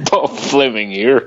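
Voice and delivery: slow, spluttering Bob Fleming delivery; lightly done TV presenter. Retold or imitated. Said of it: "one of Bob Fleming's sketches".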